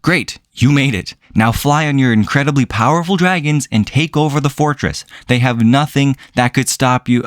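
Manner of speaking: dry mocking praise; sarcastic. Sarcastic reply to the show's characters.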